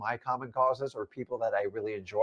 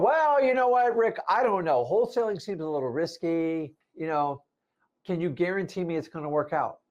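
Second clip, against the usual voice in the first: higher, hesitant doubter voice; mock doubter; 4 semitones higher than usual. Nervous listener doubting wholesaling to Rick, pitched high and hesitant. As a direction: play the nervous skeptic, pitched up.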